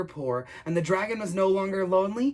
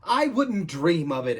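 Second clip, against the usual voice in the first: slow, lightly voiced knight; exclaiming knight; 4 dB louder, slower than usual. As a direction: exclaim it like a mild storybook knight. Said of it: "exclaimed the knight".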